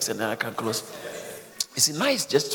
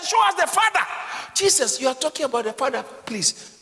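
mock Philip; 11 semitones higher, 4 dB louder than usual. Mocking Philip's request.

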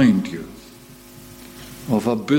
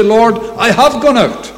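Abraham pleading; 8 semitones higher, 5 dB louder than usual. Acted. Preacher voices Abraham answering God.

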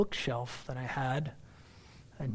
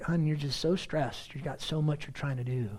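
gently console, as if rubbing his back; retold soothing wife; 2 semitones lower, 5 dB quieter than usual. Gracious wife soothing him, retold.

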